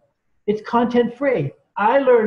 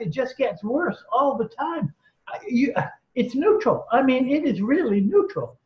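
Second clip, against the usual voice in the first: retold tearful plea; 4 semitones higher than usual. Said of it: "absolutely in tears".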